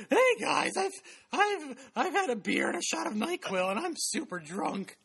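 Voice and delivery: put-on high, giggly drunk voice; mock drunk Chris. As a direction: play the tipsy friend, laughing. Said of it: "Chris is like".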